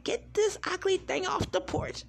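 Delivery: high-pitched frightened plea, imitating mom; imitating scared mom. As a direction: squeal it out like a scared mother begging someone to help. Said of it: "she's like".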